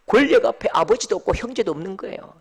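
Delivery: ordinary talk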